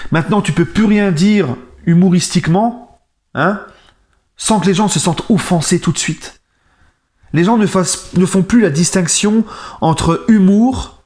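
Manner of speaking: s'emporter, voix plus aiguë, plus lente; indignation montante. Real, not acted. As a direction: marteler son exaspération. Coup de gueule contre les offensés. (vlogueur exaspéré face aux gens offensés, voix indignée qui monte)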